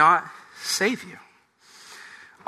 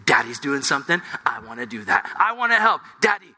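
put-on toddler son; 3 semitones higher than usual. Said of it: "he's like".

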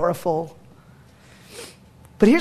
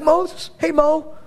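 urgent Joshua; 7 semitones higher than usual. Retold or imitated. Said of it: "He's like".

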